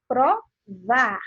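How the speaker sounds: Provar broken as Pro, VAR with a strong final beat; stress on last syllable. Shown as a demonstration. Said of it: "com uma entonação mais forte".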